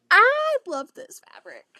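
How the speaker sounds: loud, high burst of delight; excited. Real, not acted. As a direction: blurt it out thrilled. Excited over Christmas fabric.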